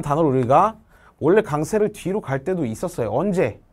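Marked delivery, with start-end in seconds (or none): none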